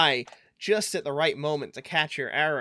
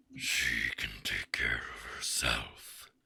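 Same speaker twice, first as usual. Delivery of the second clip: slow, whispered, breathy growling dragon voice; 11 dB quieter than usual. Narrating a roleplay scene and voicing the dragon's reply: dragon voice. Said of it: "amazing dragon voice".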